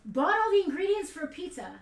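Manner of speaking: loud, high indignant rant. Real, not acted. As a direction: vent about the waste. Ranting about pizza cost.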